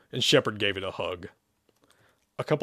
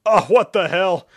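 loud, high groan of protest; 7 semitones higher, 8 dB louder than usual. Acted. Zack groans after being shot. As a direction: groan the words out loudly. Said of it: "Zack groaned".

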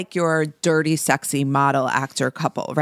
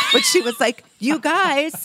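high shout through laughter; laughing shout; 11 semitones higher than usual. Retold or imitated. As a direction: yell it while laughing.

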